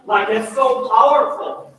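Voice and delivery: laughing, then so powerful said slowly. Real, not acted. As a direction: laugh through it, moved.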